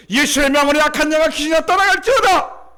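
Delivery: high, loud shouted command; fervent exorcism prayer. Retold or imitated. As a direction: act out ordering the demon out. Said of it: "다시 또 기도했어요".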